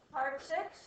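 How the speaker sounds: "six" lifted as if asking; rising question tune on "six". Real, not acted. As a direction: say "Pi over six" as an unsure question. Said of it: "with a question in your voice".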